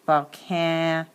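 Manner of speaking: volcan cut off after the short A; short A in volcanic. Shown as a demonstration. Teacher showing the short vowel, short A in volcan. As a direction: isolate the short A in CAN. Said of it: "it says ah".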